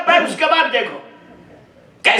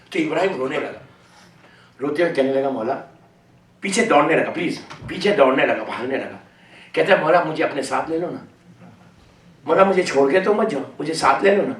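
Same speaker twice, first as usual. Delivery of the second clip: low, soft grieving storytelling voice; mournful majlis narration; 13 semitones lower, 6 dB quieter than usual. Acted. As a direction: sink the voice low and quiet for the sorrow. Mournful telling of Ibrahim's parting. (دھیمی، نیچی، غمگین مجلس کی آواز)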